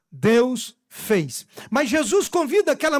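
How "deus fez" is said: emphatic. Shown as a demonstration.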